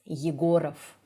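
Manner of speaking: "Yegorov" stressed only on the "go"; single stressed vowel. Shown as a demonstration. Teacher on Russian stress, one strong vowel only. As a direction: hit "go" in "Yegorov" and reduce the rest. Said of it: "You need to stress only one".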